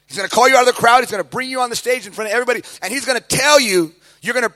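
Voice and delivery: prophetic guy. Retold or imitated. Guy's prophecy, voiced in the story.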